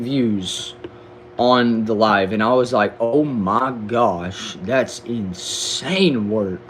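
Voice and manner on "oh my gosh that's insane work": retold amazement. Retelling own amazed reaction.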